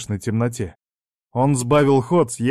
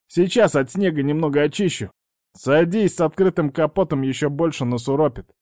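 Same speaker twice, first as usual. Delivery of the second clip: shouting over wind; 4 semitones higher than usual. Acted. Outside in blizzard, over wind.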